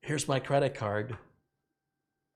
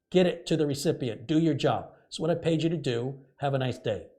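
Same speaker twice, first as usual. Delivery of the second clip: louder, clipped orders to do the job; firm telling-off; 2 semitones higher, 6 dB louder than usual. Retold or imitated. To the FedEx agent, a louder, firm telling-off. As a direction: lay down the law, firm and loud.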